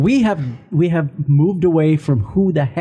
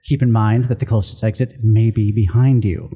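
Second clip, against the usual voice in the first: flight attendant voice; 2 semitones lower than usual. Acted. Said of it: "my flight attendant voice".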